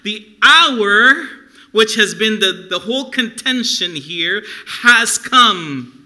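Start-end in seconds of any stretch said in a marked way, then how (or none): 0.0-1.3 higher, louder stern declaration; preacher voicing a stern, urgent command. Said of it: "a stern voice". 4.8-5.9 loud, higher, emphatic declaration; forceful preacher's stern pronouncement. Acted. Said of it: "a stern voice".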